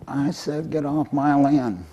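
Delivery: lightly voiced squeaky mouse standing its ground. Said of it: "squeaked up and said".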